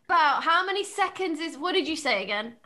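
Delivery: loud, flustered asking. Real, not acted. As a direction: call it out across the room.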